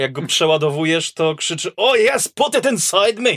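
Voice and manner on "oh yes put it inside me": put-on high, loud shouting in a Scottish accent. Describing an acid shotgun that shouts when reloaded: imitating a Scottish-accent shout. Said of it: "krzyczy ze szkockim akcentem".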